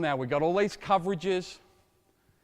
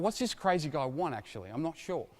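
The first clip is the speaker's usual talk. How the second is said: a touch of a puzzled mumble, softer; confused player; 2 semitones lower, 6 dB quieter than usual. Retold or imitated. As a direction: lightly voice the unsure player. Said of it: "He's saying".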